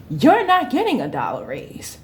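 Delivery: laughing through the owner's refusal. Retold or imitated. Owner refusing the raise, laughing. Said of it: "she was like".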